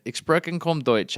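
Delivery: slow, careful Ich spreche kaum Deutsch; halting German. Retold or imitated. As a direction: spell out German words carefully. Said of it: "I speak little, little German".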